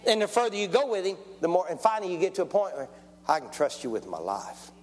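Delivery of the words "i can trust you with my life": low, hushed declaration of trust; quiet, heartfelt avowal; earnest trust. Acted. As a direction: drop low and confide it sincerely. Voicing a believer's trust in God.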